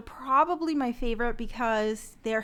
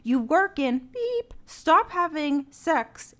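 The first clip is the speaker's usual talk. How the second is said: lightly performed radio reading, punched stresses. Acted. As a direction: read the ad out deliberately in your radio voice. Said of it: "It's my radio voice".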